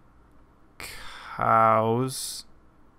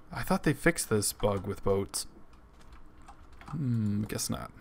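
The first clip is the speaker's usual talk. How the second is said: hiccups; 4 dB quieter, slower than usual. Real, not acted. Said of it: "Sorry, I have the hiccups right now".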